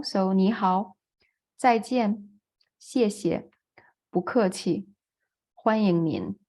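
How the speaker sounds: careful Mandarin with clear tones on 你好, 再见, 谢谢, 不客气, 欢迎您; Mandarin phrases. Shown as a demonstration. Teacher modelling basic Mandarin greetings for the class, careful tones. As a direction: say 你好 and 谢谢 slowly with each tone distinct. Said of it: "how we say".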